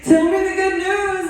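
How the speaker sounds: high, eager voice of the advisor; eager friend. Retold or imitated. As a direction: play the cheerful advisor asking for news. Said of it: "and she's like".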